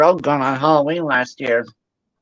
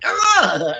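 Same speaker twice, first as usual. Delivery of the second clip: higher-pitched startled "ugh"; mock jolt of fright, blurted out; startled groan; 6 semitones higher than usual. Storyteller reacting to a sister sneaking up, startled.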